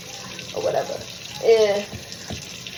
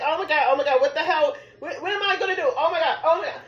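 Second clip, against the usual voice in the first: panicking; 4 semitones higher than usual. Retold or imitated. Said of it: "I'm panicking".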